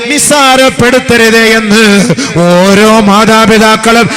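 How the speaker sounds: high, loud and slow, in full sermon chant; fervent preaching. Acted. Preacher exhorting parents at a wedding gathering, loud and high. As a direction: preach it out to the hall, slow and soaring.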